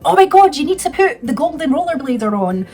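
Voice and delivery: loud, high, excited exclamation; imitating someone thrilled about a song; enthusiastic. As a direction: burst out with it like an overexcited brother. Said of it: "they're both getting really enthusiastic".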